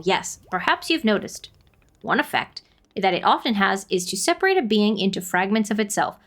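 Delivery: put-on measured, kindly old guardian; wise forest spirit. Voices wise forest character.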